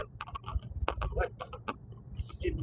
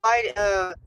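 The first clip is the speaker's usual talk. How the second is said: retold scolding; 2 semitones higher, 6 dB louder than usual. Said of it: "And I'm like".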